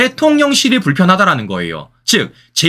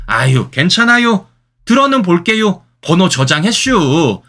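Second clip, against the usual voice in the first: lightly done Chungcheong speech, slowed a little; easygoing Chungcheong reply with a drawn-out 저장했슈; Chungcheong dialect; 3 semitones higher, slower than usual. Retold or imitated. Commentator lightly imitating calm Chungcheong locals, mild Chungcheong accent. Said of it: "제가 사투리를 참 못합니다".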